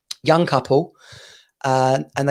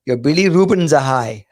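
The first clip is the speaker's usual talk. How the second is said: hint of an Indian-y accent; lightly imitated Indian-y accent; 4 dB louder than usual. Retelling the caller's diagnosis to a co-host, Indian-y accent. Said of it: "got a sort of Indian-y accent".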